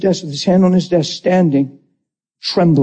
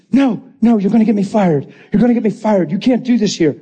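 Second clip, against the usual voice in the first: alarmed protest; 3 semitones higher than usual. Retold or imitated. Bill begging the preacher not to get him fired, alarmed. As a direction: protest in mild panic, imitating him.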